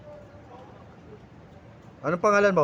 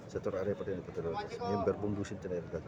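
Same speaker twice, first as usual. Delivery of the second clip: much lower, much softer, guttural demon voice; demonic voice; 13 semitones lower, 12 dB quieter than usual. Acted. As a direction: growl it low like a spirit speaking through someone. Possessed healing session, demonic voice.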